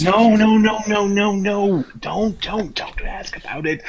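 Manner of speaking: high, loud rush of no's, easing off; panicked protest. Acted. Stopping her asking about the genie, panicked protest. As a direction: frantically cut off the question, high-pitched.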